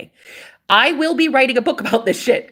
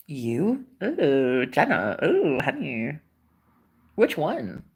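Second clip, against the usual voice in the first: mocking naysayer; 6 semitones lower, 5 dB quieter, much slower than usual. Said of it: "like Agent Smiths of this fucking Matrix".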